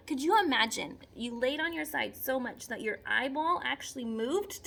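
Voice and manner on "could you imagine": amazed. Acted. Amazed at flounder eyes.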